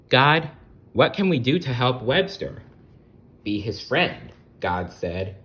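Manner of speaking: bright, lively read-aloud voice; storybook narration. A narrator's reading. Storyteller reading aloud to children. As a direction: tell it like a bedtime picture book.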